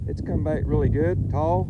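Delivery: loud, punchy field report; shouting over wind. Real, not acted. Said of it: "I hope y'all can hear me".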